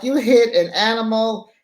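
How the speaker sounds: imitating a friend's laughing disbelief; incredulous shout. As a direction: yell it like you can't believe what you just heard.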